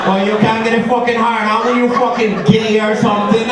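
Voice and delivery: angry confrontation. Acted. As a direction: confront him as an irritated co-worker. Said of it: "walks up next to me all fucking angry".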